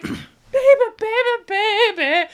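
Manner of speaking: high, hammy seductive coo; mock sexy. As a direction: play the sexy star, badly. Mock sexy shower scene.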